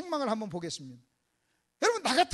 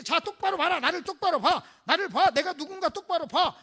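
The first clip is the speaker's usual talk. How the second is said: raised, insistent orders; staged commanding voice; acted stern command; 6 semitones higher, 6 dB louder than usual. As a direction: demand that they look, repeating it forcefully. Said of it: "이렇게 할 수도 있어요".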